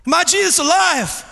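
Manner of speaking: put-on high, loud childlike exclamation. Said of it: "said it a little louder".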